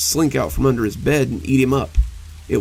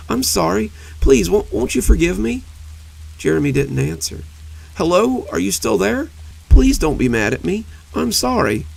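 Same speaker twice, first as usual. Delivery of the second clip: much higher and louder, begging; desperate pleading; 6 semitones higher, 3 dB louder than usual. A narrator's reading. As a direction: plead into the silence, frantic. Monster pleading to silent Jeremy.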